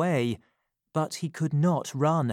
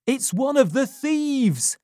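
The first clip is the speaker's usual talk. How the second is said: loud, higher alarmed shout; shouted loudly; 11 semitones higher, 6 dB louder than usual. Acted. Servant Giles spots a thief at the door, loud shout. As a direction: raise the alarm at full voice. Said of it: "he shouted loudly".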